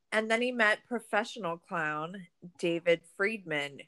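composed documentary synopsis read; reading a summary. Real, not acted. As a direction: read it out evenly, like prepared notes. Reads prepared documentary summary after chatting.

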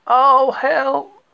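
high, loud cry for help; a stuck bear calling out in alarm. A narrator's reading. Pooh stuck in the hole, crying out high and loud.

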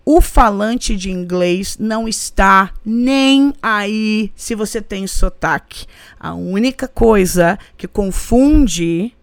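slow, deliberate delivery, word by word; clear message. Real, not acted. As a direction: spell the point out slowly and clearly. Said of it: "vamos ser clara nessa, nessa mensagem".

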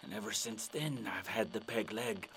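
low, hushed pirate aftermath; soft, grave sea dog. Acted. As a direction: drop down solemnly to close the yarn. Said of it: "And the pirate's like".

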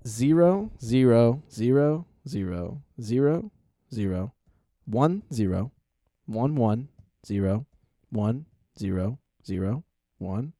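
slow, deliberate digit dictation; robot saying binary. Pretend. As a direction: read each digit out slowly. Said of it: "Slow down".

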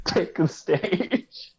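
very slow, stretched-out call; drawn-out battle call. Acted. Game master echoing a trainer's call sign, drawn out. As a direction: draw every word out like a stage call.

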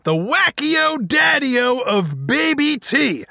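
hammy podcast host intro; announcer. Acted. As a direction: welcome them like a showman.

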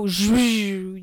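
drawn-out mock zhuzh noise; imitated noise. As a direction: imitate his long buzzy zhuzh. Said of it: "he makes that noise".

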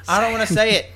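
reluctant whispered protest; whispering. Acted. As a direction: whisper it, sulking. Acted reluctant reply.

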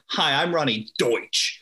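hard-hitting, slow commercial intro; Ronnie Deutsch. Retold or imitated. Imitating a lawyer closing her book on camera, hard-hitting. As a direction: lightly imitate a TV pitchwoman, landing hard on "Deutsch". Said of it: "it was just so hard hitting".

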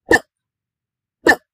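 ப as a very short, isolated p; letter sound demo. Shown as a demonstration. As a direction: pop ப out as p, not the letter name. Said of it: "இந்த எழுத்திற்கான ஒலி உச்சரிப்பு".

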